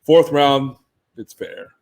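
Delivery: low flat monotone. Retold or imitated. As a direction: say it in a dull monotone. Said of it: "in his monotone voice".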